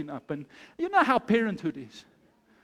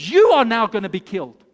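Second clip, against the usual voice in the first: King Xerxes; 2 semitones lower, 7 dB louder than usual. Acted. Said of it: "this is what King Xerxes said".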